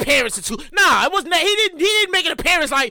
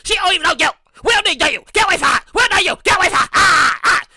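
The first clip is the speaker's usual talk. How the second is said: mock protective friend; 2 semitones higher, 4 dB louder than usual. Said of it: "and her friend like".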